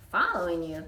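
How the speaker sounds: a loud puzzled echo; surprised. Acted. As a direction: bounce the word back in surprise. Toot surprised.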